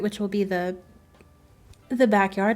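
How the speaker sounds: talking through hiccups; hiccuping mid-sentence. Real, not acted. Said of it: "I have the hiccups".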